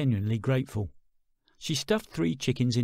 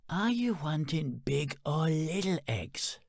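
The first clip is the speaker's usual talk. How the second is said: chicken lady; 3 semitones higher, 4 dB quieter, slower than usual. Acted. Chicken lady explains patiently.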